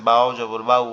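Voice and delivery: "বাউ" glided easily, not held; soft, quick diphthong. Shown as a demonstration. Teacher demonstrates leen letter, "বাউ" as a short easy glide. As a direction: spell it, then say "বাউ" softly and quickly. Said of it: "উচ্চারণটা হবে আপনার সহজ, নরম এবং তাড়াতাড়ি".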